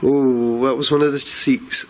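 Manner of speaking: jolted by a sudden noise; startled exclaim. Real, not acted.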